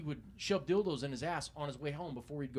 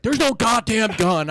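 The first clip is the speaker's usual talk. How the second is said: suspect's denial, slow and loud through laughter; mocking the suspect's denial, laughing; laughing quote; 8 semitones higher, 14 dB louder, slower than usual. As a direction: drag it out loud while cracking up. Suspect denies gun, teller laughing.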